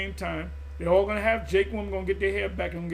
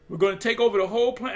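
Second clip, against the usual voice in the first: emphatic declaration; 5 dB louder, faster than usual. Acted. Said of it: "I keep saying this".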